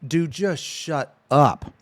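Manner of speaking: very slow, drawn-out weary plea; exasperated thought. Retold or imitated. Streamer telling a fellow creator, slowly, to stop. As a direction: drag it out, fed up.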